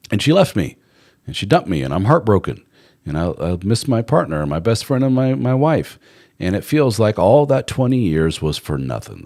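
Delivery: lightly acted husband's distress, pitch climbing; imitated heartbroken lament. Divorced man telling the host about his loss, mildly distraught. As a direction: retell a jilted man's plea with some urgency.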